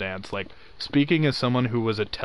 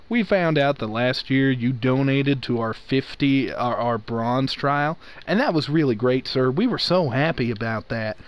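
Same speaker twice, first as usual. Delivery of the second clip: slight Southern cop-like phone voice. Retold or imitated. Telemarketer pitching a donor, in a slight Southern police-officer voice. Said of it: "I can't do that voice".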